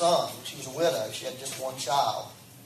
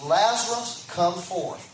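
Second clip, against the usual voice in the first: mild loud call. Retold or imitated. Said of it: "he cried out with a loud voice".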